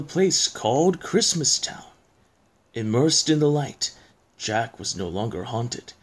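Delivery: measured poem reading with pauses; storyteller reading verse; story narration. A narrator's reading. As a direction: recite it like a spooky bedtime tale.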